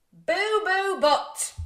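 loud, high, drawn-out announcement; silly name blurt. Acted. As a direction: trumpet the ridiculous name slowly.

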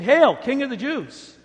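slow, loud, high mock salute; mocking hail. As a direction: hail him like a cruel joke. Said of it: "they mocked Jesus".

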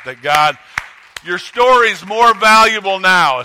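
rising to a loud, high preacher's cry; preaching climax. Real, not acted. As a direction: lift it up and proclaim it to the church.

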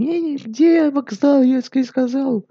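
high, slow exaggerated Russian accent. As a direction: ham up a thick Russian accent. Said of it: "כל מי שאוהב מבטא או שאוהב רוסים".

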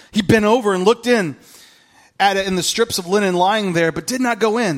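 scripture reading. Acted. Pastor reading John to church, earnest reading voice. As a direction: read the gospel out to the congregation.

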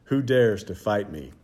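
loud booming challenge from the giant; a giant daring anyone to fight; giant's shouted challenge. Acted. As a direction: call it across the valley to the whole army. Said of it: "shouted his terrifying challenge".

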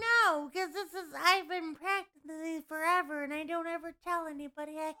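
inhaled ditzy-blonde voice; playful alter ego, unlike your own voice; put-on character voice. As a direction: play a dumb blonde, air sucked in. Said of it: "I can only do this".

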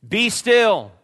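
loud commanding call at the waves; stern rebuke. Acted. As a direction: order the storm to stop. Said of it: "he rebuked the wind".

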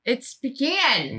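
slow "pecan" as pee-CAN; pee-CAN pronunciation. Shown as a demonstration. Insisting to the team, slow "pecan" as pee-CAN. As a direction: draw out "pecan" with EE and a flat A. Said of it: "listen to the difference".

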